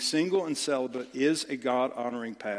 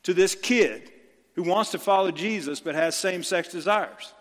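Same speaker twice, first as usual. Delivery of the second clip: fired-up retort; 3 semitones higher, 4 dB louder than usual. Retold or imitated. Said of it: "And I say".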